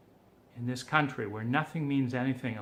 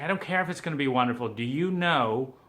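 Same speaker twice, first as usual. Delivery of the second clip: frustrated outburst; 3 dB louder than usual. Retold or imitated. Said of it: "I was like".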